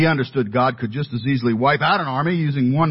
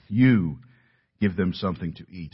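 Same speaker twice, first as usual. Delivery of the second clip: You set apart by a pause; stress on You; 3 semitones lower than usual. Shown as a demonstration. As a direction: lean on You, then drop lower for the rest. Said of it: "I emphasize the word "you".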